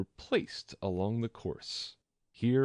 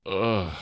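shivering ugh; 6 dB louder than usual. Acted. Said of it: "said the Lory with a shiver".

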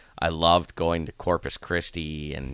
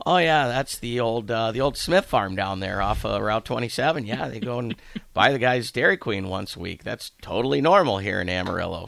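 lightly voiced Texan coworker, higher and louder, amused; local office guy; 5 semitones higher, 4 dB louder than usual. Coworker telling the new coach the horses are normal, a light mock-local voice. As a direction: casually explain that this is normal here. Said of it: "and he goes".

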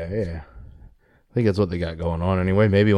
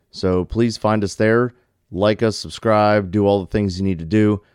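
outro announcer read. Acted. Closing announcement to listeners.

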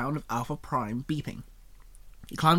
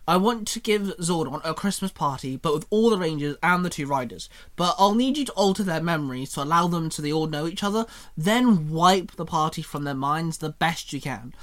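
excited grin; 2 semitones higher, 4 dB louder than usual. Acted. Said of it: "with an excited grin".

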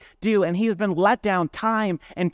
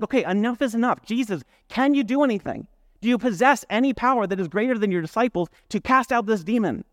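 urgent father; 4 semitones higher than usual. Retold or imitated.

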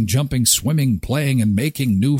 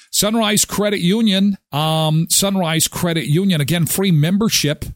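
ad read. Acted. Sponsor read.

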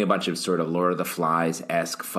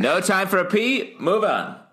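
mock urgent dismissal; 11 semitones higher, 3 dB louder than usual.

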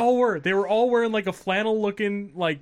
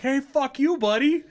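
high-pitched mock heckle; comic heckler with rising endings; imitated Canadian heckler; 9 semitones higher, 3 dB louder than usual. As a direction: play an irate passerby, pitched way up. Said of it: "this guy's like".

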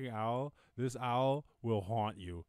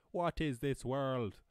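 slow, drawn-out "What is this world"; exaggerated amazement; 2 semitones higher, 4 dB louder, much slower than usual. Marvelling at free language learning, exaggerated amazement. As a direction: stretch every word in mock wonder.

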